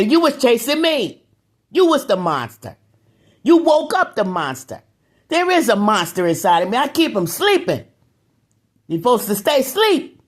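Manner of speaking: indignant lecture to neighbors; heated rant. Real, not acted. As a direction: scold them, riled up and rising high.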